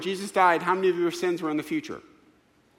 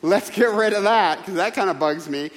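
higher, louder mock-indignant Peter; Peter's voice; 4 semitones higher, 5 dB louder than usual. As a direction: ham up Peter demanding the embarrassing part be erased. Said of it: "Peter would have said".

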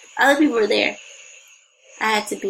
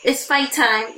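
mock inner voice; 5 semitones higher, slower than usual. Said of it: "I'm like".

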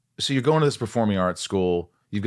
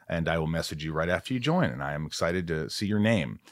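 easy, friendly sponsor read. Acted. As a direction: sell the Patreon warmly. Podcast ad read.

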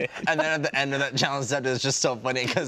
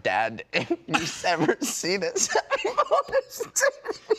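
laughing; slower than usual. Acted. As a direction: break into giggles on the wish. Laughing through a mock dedication.

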